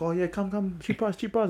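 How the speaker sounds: high pushy hawker voice; mock street vendor calling cheap price; street seller. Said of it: "the guy was like".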